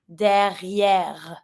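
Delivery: "derrière" drawn out with each French R sounded; both Rs pronounced. Shown as a demonstration. Teacher showing the tricky R, both Rs pronounced. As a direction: say "derrière" with a throaty R in the middle and at the end. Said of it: "we pronounce each R in a word".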